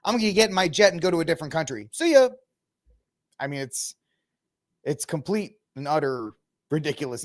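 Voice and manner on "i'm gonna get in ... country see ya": high mocking falsetto; high mock voice of a fleeing celebrity; mocking Rosie.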